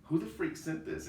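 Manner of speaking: high, loud, exasperated demand; furious demand. Retold or imitated. A store manager furious about the company-wide email, shouting. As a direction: snap it out like a fuming boss. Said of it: "I was so pissed".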